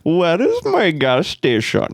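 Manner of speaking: hammy put-on Indian accent. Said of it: "I'd just do the Indian accent".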